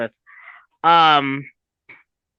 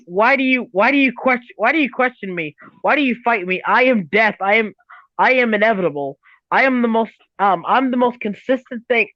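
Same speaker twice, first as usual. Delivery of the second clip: menacing Death voice. Retold or imitated. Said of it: "Death as a villain would do".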